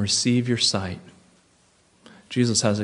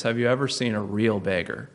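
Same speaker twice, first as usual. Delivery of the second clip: serious, softer; 4 dB quieter than usual. Real, not acted. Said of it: "I'm being serious".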